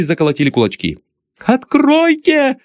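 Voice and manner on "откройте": very high, slow, desperate shriek; girl shrieking through the door; hysterical scream. Acted. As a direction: scream to be let out. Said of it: "в истерике вопил девичий голос".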